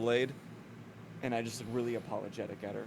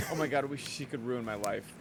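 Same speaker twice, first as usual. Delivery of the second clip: put-on quick Minnesota accent drifting into Scottish; Minnesota accent slipping Scottish; faster than usual. Player swooning over the demon, Minnesota accent going Scottish. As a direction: try Minnesota, slide into Scottish at the end. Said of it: "that got a little Scottish at the end".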